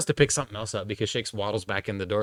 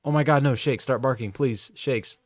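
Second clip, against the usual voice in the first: mock pleading, a bit louder; 5 semitones higher, 4 dB louder than usual. Oscar begging the old dog to bark, mock pleading. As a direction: beg the dog half-jokingly. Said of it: "pleading with his dog".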